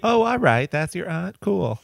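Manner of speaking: high, sarcastic fake agreement. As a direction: play along sarcastically. Mock sarcastic echo.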